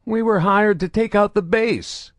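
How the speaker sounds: high, strained prisoner voice; reluctant admission. A narrator's reading. Crippled prisoner admits to Saren, high and strained. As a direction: confess under duress. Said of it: "the crippled man admitted".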